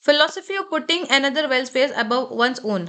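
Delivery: slow, careful reading of the definition; slow dictation. Shown as a demonstration. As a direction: dictate the meaning for the class. Teacher reads definition slowly. (परिभाषा धीमे स्वर में)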